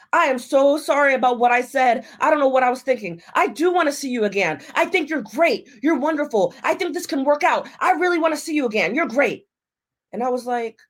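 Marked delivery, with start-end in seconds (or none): 0.1-9.5 higher-pitched, mildly imitated pleading; pleading apology. Date phoning to win her back, lightly mocked pleading. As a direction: gush an eager retold apology.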